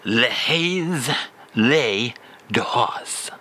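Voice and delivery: les dehors drawn out slowly. Shown as a demonstration.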